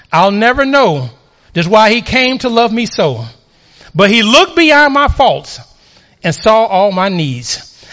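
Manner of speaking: slow, measured preacher's recitation; hymn recited as poetry. Acted. Preacher closing on grace with hymn words, solemnly declaimed.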